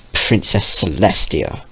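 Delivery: bitter hatred. Acted. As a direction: spit out the name with hatred. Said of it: "with nothing but bitter hatred".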